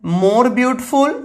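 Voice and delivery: drawn-out, slow model answer; slow demonstration. Shown as a demonstration. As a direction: stretch it out for the class. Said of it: "इसका भी हो जाएगा more".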